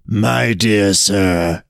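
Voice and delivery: slow, measured address; a hint of a weary elder; lightly voiced road. Road answers the sad Brahmin, slow and measured.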